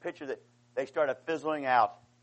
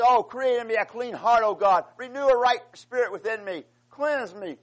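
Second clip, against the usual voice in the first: higher and louder, an impassioned plea; fervent raised prayer of repentance; crying out to God; 4 semitones higher, 4 dB louder than usual. Retold or imitated. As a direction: beg God for a clean heart, pitched high. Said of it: "And then he says".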